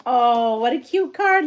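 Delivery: real delight at a gift. Real, not acted. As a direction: gush over a cute card. Delighted opening a gift card.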